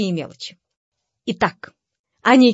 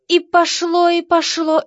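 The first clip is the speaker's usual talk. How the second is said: much higher, mocking voice; mock outburst; 8 semitones higher, slower than usual. Gentleman mimicking the jealous husband, high mock wail. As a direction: squeak it out like a scandal erupting.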